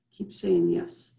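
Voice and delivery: hushed slow encouragement; slow whisper. Real, not acted. Wellness host guiding listeners.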